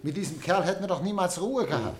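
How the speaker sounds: quick words through relieved laughter; laughing relief. Acted. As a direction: laugh it off, glad he is gone. Relieved chat about paying him off. (lachend und erleichtert)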